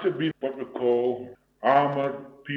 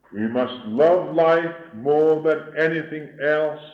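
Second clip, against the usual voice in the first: rising, fervent preaching with heavy pauses; sermon delivery. Acted. Preacher exhorting his listeners in a fervent sermon voice. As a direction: preach it to the hall, then let it sink.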